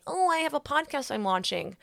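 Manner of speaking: high, mock-bashful announcement; silly announcement. Podcaster feeling silly announcing her launch, mildly mocking herself. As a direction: lightly send up your own big news. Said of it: "I don't wanna say silly saying".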